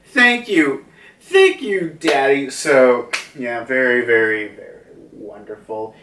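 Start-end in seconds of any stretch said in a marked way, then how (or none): 0.0-2.5 high, grateful little daughter; grateful child. Retold or imitated. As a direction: thank Daddy in a higher child voice. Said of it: "it's changed now into".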